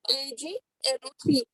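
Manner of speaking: हर अक्षर धीरे-धीरे और साफ़ बोलना; छात्रों के लिए धीरे से दोहराओ; धीरे दोहराना. Shown as a demonstration. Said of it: "क्या लिया?". (धीमे, साफ़ अक्षरों में दोहराना)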